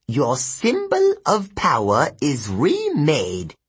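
slow, ceremonial demon voice; reverent demon. Acted. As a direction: present it solemnly to your dark lord. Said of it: "one said".

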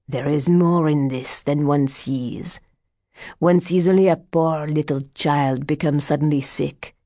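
put-on old fortune teller. Voices old card reader Martin.

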